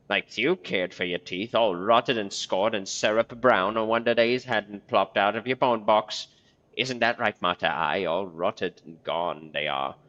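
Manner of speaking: slow, drawn-out crone mockery; mocking crone. Marta sneering at the corpse's rotten teeth, slow and drawn out. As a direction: savor each insult slowly.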